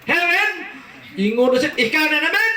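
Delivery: high, laughing exclamation; mock excited greeting. Reunion of the two men, high laughing greeting. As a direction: greet a friend with glee.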